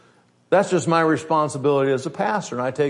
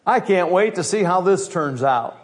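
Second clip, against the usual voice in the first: mock sweet parent; 3 semitones higher than usual. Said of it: "Are you gonna say".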